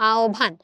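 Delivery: আহ্বান said as obbhan with a bh; standard pronunciation. Shown as a demonstration. Teacher giving the standard আহ্বান. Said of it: "আহ্বান শব্দটার প্রমিত উচ্চারণ হচ্ছে".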